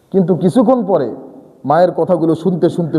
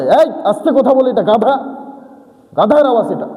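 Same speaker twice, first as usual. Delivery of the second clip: rebuke; 6 semitones higher than usual. Acted. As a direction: tell him off sharply. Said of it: "আল্লাহ বলে".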